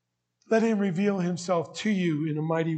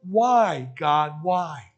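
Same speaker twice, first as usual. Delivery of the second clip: louder, rising pleas of a sufferer; pleading outcry; 2 semitones higher, 4 dB louder than usual. Retold or imitated. Pastor voicing people's questions to God, loud pleading. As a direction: throw each why up in protest. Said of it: "Someone say".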